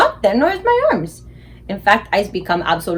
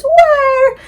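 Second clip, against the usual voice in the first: high, loud bewildered question; father demanding an answer, pitch soaring; exasperated shout; 7 dB louder than usual. Acted. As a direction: cry it out in frustration. Father baffled, shouting for invisible boy.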